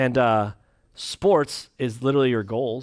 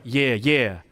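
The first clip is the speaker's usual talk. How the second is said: hype man; 4 semitones lower than usual. Pretend. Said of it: "the guy in the background like".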